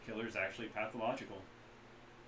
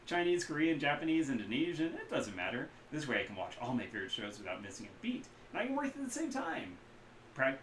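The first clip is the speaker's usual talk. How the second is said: excited vendor; 2 semitones higher, 4 dB louder than usual. Acted. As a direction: gush about the show. Kaida gushing about shows.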